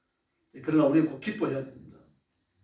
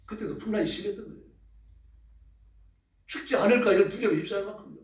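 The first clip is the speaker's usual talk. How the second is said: ordinary delivery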